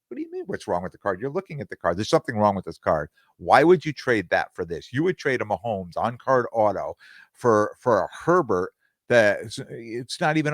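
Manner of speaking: can't believe what he's hearing; incredulous retort. Retold or imitated.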